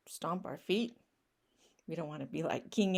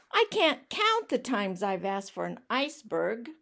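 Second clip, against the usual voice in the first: ranting pigeon; 5 dB louder than usual. Acted. Pigeon rants about asking.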